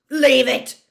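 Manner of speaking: sharp, high shouted order; Moody. A narrator's reading. Moody warns Crabbe off the ferret, loud shout. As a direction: shout it as an urgent command. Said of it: "Moody shouted".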